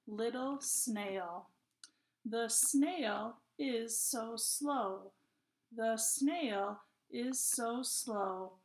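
slow, measured poem reading with pauses between phrases; poem read to children. Acted. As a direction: read word by word, slowly, for young children. Reads the poem together.

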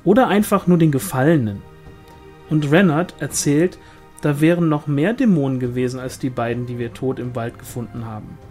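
quick, lively gossip with swooping pitch; eager village gossip; gossiping sister-in-law. Acted. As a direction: dish the village rumours, voice leaping up. Pauline's gossip, voiced in narration.

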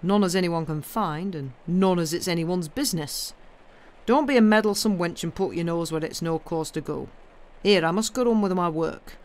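put-on gruff old moor man, dismissive; surly Yorkshire gardener. Gardener refusing the girl's questions, cross Yorkshire scolding. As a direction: send the child off crossly in Yorkshire.

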